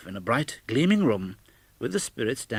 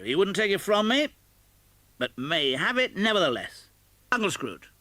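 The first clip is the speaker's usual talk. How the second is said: put-on high, laughing young man's voice; merry nephew; 9 semitones higher than usual. A narrator's reading. Nephew telling friends about his uncle, merry and amused. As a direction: play the jolly nephew, full of fun.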